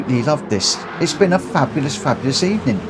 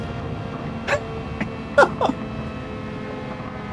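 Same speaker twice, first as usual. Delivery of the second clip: airy laugh; 10 dB quieter than usual. Real, not acted. Laughing at race result.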